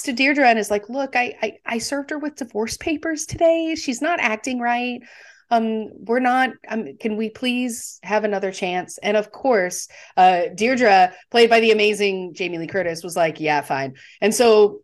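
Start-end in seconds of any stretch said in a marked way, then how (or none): 0.9-9.0 higher, slightly soft pleading; lightly acted appeal for another chance; mild retold plea. 13.4-13.9 low, understated retold concession; mock reluctant agreement; grudging consent.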